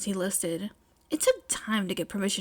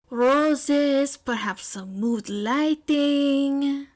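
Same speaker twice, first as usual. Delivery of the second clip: dreamy drawn-out suggestion; 4 semitones higher, 4 dB louder, much slower than usual. Acted.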